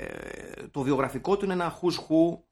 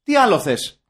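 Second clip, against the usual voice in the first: loud rhetorical demand; mildly indignant, pushed-out question; mock exasperation; 3 semitones higher, 5 dB louder than usual. Capping the film-length rant, mock exasperated. Acted rant, first of two takes.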